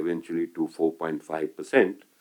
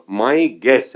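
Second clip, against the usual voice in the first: "guess" drawn out slowly and louder; stress on GUESS; 4 semitones higher, 7 dB louder than usual. Real, not acted. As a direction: lean slowly and firmly on the word "guess". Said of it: "I underline the word guess".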